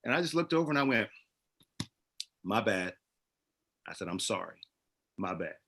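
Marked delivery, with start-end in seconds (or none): 2.4-5.5 calm apology. Retold or imitated. Calm apology to a yelling driver.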